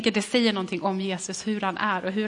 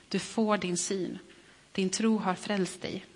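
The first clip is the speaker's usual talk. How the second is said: softer, slow and reassuring; gentle healing words; 3 dB quieter, slower than usual. Acted. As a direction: tell him gently he can see. Jesus speaks healing words.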